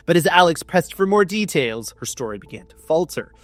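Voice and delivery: measured storybook reading over music; gentle audiobook narration; story narration. Acted. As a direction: read it like the back of a novel. Reads the chapter aloud.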